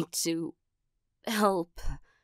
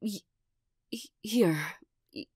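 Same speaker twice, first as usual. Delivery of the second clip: whispering; 3 semitones higher than usual. Acted. Shy stammered offer.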